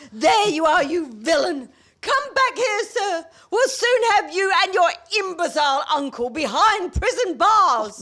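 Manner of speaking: high, loud scolding; indignant accusation. Acted. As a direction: corner the villain and scold. Confronting the villain.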